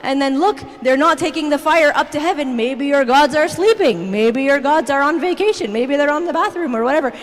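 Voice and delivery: mocking, sassy taunt at rivals; sarcastic and sassy. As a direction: needle them with mock-helpful suggestions. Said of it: "he's, like, so sarcastic, he's, like, so sassy".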